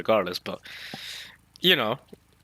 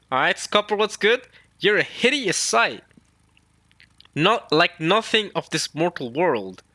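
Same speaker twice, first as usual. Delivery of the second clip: Scopper voice; 5 semitones higher than usual. Acted. Reading Scopper's line to Emu, lightly voiced. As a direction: play it like a rough old pirate. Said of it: "says Scopper".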